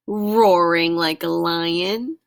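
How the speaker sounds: slow, loud roar stretched over the word. Acted. Reader recapping the animals for children, roaring. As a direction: draw roaring out like a lion.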